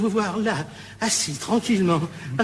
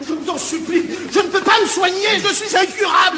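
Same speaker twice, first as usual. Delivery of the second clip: begging, climbing higher and louder to a shout; desperate shouting plea; 10 semitones higher, 4 dB louder than usual. Acted. Addict begging his friend, rising to a desperate shout. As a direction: plead louder and louder until you break.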